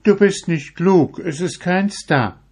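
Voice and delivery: put-on high, loud scolding old woman. A narrator's reading. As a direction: brush him off in a high old voice. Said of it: "Die Frau antwortete".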